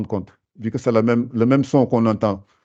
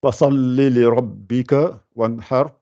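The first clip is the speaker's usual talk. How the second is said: slow recited Fasalli li rabbika wanhar; teacher reciting the verse slowly; Quran recitation. Shown as a demonstration. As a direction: recite it carefully like Quran reading. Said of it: "Mais prenez celui-là".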